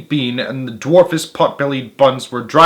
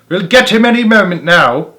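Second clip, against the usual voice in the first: higher, louder eager call; eager shout; 6 semitones higher, 5 dB louder than usual. A narrator's reading. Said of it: "Boggis shouted".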